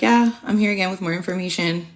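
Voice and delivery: sheepish whispered reply; hushed mock answer. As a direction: whisper it, a bit embarrassed. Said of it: "I'm like".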